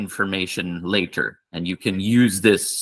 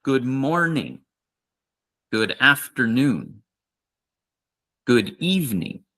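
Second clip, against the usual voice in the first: slow repeat-after-me; 2 semitones higher than usual. Shown as a demonstration. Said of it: "remember to say it with me".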